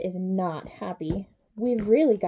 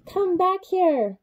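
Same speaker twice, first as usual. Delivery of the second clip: mock giant shout; 8 semitones higher, slower than usual. Giant calling after the intruder, hammed-up. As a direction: bellow after the thief.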